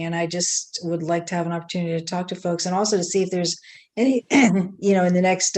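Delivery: hoarse, voice giving out; raspy, tired losing voice. Real, not acted. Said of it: "I'm losing my voice".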